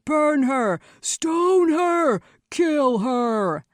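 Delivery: high, loud baying yells; mob cries. A narrator's reading. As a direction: shout like a mob out for blood. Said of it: "dozens of voices cried".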